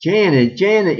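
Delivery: urgent yell of a name. Acted. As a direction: call her name urgently. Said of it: "yells Beth and Maggie".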